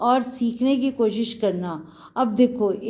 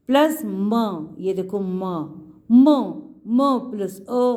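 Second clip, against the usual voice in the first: slow spelling out; 3 semitones lower, slower than usual. Shown as a demonstration. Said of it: "आधा क और आ मिला के क".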